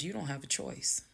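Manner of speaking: soft, composed finality; calm. Retold or imitated. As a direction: close it quietly, no argument. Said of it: "exactly how I was talking".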